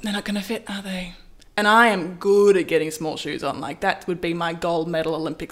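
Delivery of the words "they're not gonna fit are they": bitchy stylist. Retold or imitated. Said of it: "bitchy ass stylist just kept being like".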